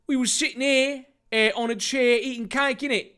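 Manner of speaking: high, quick put-on voice; Jack's character voice. Jack giving his alibi at the party, high character voice.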